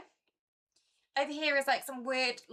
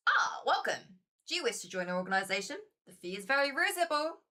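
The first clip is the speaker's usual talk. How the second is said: lodge keeper voice; 3 semitones higher than usual. Acted. Lodge host greeting a new visitor, lightly voiced. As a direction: play the cult recruiter, sweetly inviting.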